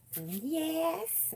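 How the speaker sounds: high bright burst of yes; excited squeal. Real, not acted. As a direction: pop up high with delight. Excited burst about niece.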